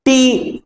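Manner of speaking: "টি" held alone, then a stop; syllable cut off. Shown as a demonstration. Teacher breaking beautiful into syllables, stopping after each. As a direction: say "টি" as an isolated syllable. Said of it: "থেমে যাও".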